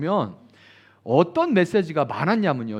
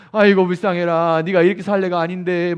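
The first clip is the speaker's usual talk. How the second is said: pitying shaman; 6 dB louder than usual. Retold or imitated. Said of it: "무당이 하는 말 같죠".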